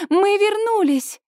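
high, joyful shout; excited call. A narrator's reading. Daughter calling happily to her parents on the street. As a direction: call out the news with glee.

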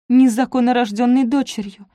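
ordinary delivery, nothing marked

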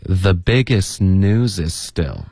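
slow "the biggest news is still", words run together; linked model reading. Shown as a demonstration. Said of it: "按照这个实际音标的这个方式练习".

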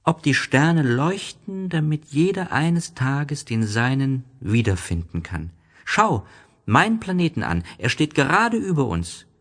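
the little prince showing the snake his planet, high and dreamy; little prince dreaming. Acted. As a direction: wonder at the stars in a high small boy's voice. Little prince voice in story reading.

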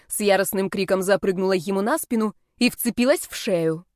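plain reading voice

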